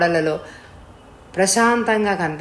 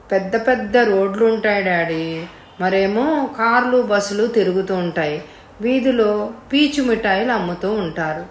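put-on little child answering; 2 semitones higher than usual. Child answers his questioner.

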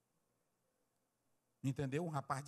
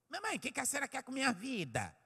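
high-pitched mock protest; imitated cheeky child; 9 semitones higher, faster than usual. Preacher mimics a cheeky child to mother, high mock protest. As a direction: mimic an insolent child complaining. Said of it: "Ainda tem filho que é saliente".

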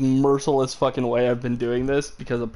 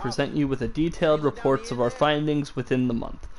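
calm, even letter reading; soothing reading voice. Acted. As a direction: read it like an audiobook narrator. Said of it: "I have such a soothing voice".

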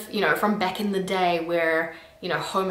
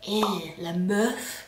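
unimpressed; 3 dB quieter, much slower than usual. Retold or imitated. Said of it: "you're just like".

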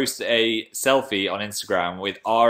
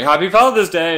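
higher, louder celebratory cry; mock cheery greeting; 7 semitones higher, 8 dB louder than usual. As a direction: call out a gleeful holiday greeting, imitating others. Quoting people greeting on wrong date.

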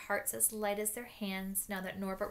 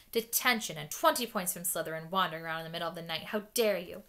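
stern scolding; 6 dB louder than usual. Acted. McGonagall scolding Malfoy.

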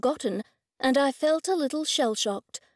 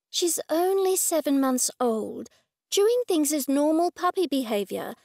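patient vet; 4 semitones higher than usual. Acted.

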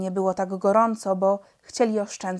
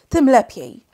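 calm pilot; 4 semitones higher, 11 dB louder than usual. A narrator's reading. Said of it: "tak samo spokojny".

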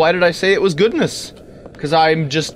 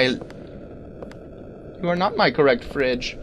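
mock robot voice; 2 semitones lower, 8 dB quieter, slower than usual. Player mocking the game's wrong-fridge voice as a slow drone. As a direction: intone it like a cold machine.

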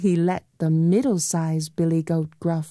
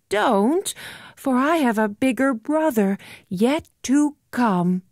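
high little goat; 6 semitones higher than usual. Acted.

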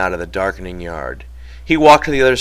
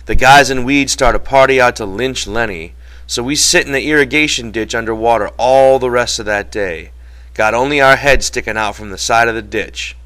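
George carrying on the tale, somewhat raised voice; George telling his story; 3 semitones higher, 4 dB louder than usual. Acted. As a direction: keep recounting the escape with energy.

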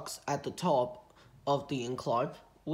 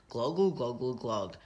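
gurgling glugs; 5 semitones lower than usual. A narrator's reading. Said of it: "he said".

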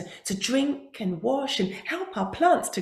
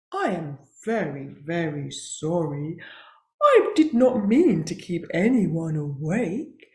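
sorry buffalo voice; 6 semitones lower than usual. Acted. Buffalo apologizing.

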